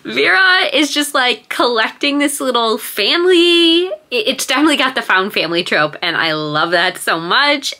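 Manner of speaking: high, wavering, on the edge of tears; talking through welling tears; teary voice. Real, not acted. Vlogger describing the found family, tearful. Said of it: "I'm, like, tearing up".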